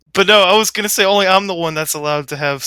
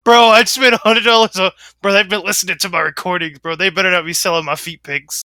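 mock Josh voice. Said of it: "Josh is literally the one talking".

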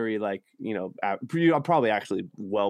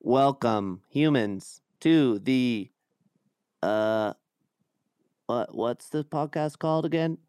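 lightly voiced robot host; a hint of a robot announcer. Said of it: "Why does this robot never know".

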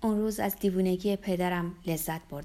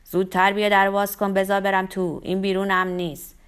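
loud, urgent begging; pleading; 7 dB louder than usual. A narrator's reading. Frightened father begging to be let inside, pleading. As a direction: implore her, insistent and loud from the first word.

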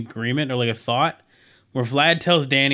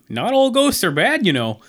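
high voice; 6 semitones higher than usual. Retold or imitated. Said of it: "he's like".

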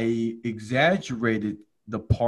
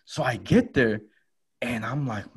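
ordinary talk

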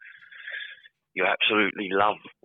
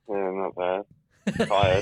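unenthusiastic; much slower than usual. Real, not acted. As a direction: answer wearily, with little enthusiasm. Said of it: "you sound so, uh, enthusiastic".

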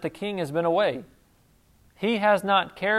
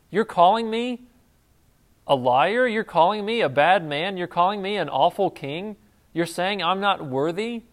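a king confronting a lying servant; indignant king. Acted. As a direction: push back hard, offended.

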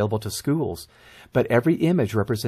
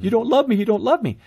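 put-on high, wounded child's protest; lightly hammed-up tearful complaint; mock tearful child; 10 semitones higher than usual. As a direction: plead like a hurt, oversensitive kid. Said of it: "they're gonna be in tears".

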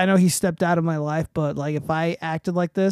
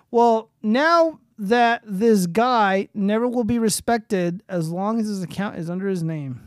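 slow, emphatic read-out, louder at the start; reading a tweet aloud; 4 semitones higher, 4 dB louder, slower than usual. Acted. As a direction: read it out slowly and pointedly.

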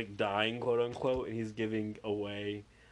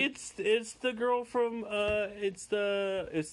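mock starstruck stammer; 10 semitones higher, much slower than usual. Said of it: "You're like".

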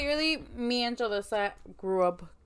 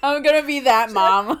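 laughing; 4 semitones higher, 11 dB louder than usual. Real, not acted. Laughing about crying mom.

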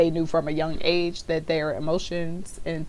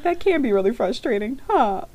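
soothing, stifling laughter; 6 semitones higher, 3 dB louder than usual. Retold or imitated. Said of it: "I was like".

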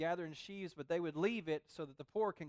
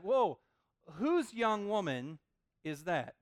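struck Boaz; much slower than usual. Retold or imitated. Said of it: "exactly the tone that you get Boaz".

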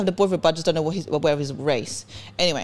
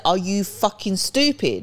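retold angry outburst; much slower than usual. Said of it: "'cause I started raising my voice".

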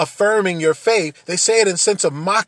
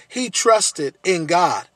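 mocking; 3 dB louder than usual. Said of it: "and so there's this mocking".

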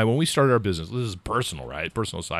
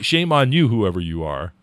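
mock scolding; 6 dB louder than usual. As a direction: scold them in jest, voice raised. Jokingly scolds imagined listener.

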